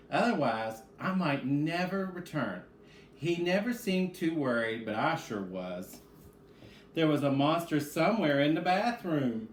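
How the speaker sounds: put-on lively storybook read-aloud for kids; animated picture-book narration; reading to children. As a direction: read it like story time with young listeners.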